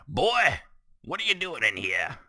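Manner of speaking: loud, high scolding call. Real, not acted. Kid walks into recording room.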